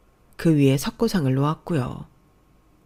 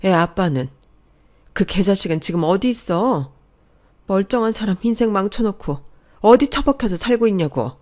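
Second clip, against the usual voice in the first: loud, furious demands; glaring fury; 4 dB louder than usual. Acted. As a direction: rage at the absent father, loudly. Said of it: "눈을 부릅뜨고 엄마한테 그랬대요".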